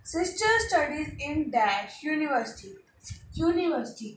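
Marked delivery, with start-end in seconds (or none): 0.0-2.7 each word read slowly and evenly; slow dictation for students. Shown as a demonstration. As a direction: read the blank sentence slowly for copying. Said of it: "Sita is the best girl in the class".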